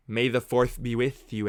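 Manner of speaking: slow, deliberate May the fourth; slowed Star Wars greeting. Shown as a demonstration. Greeting his stream, slowly and deliberately. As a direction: draw it out like the famous line.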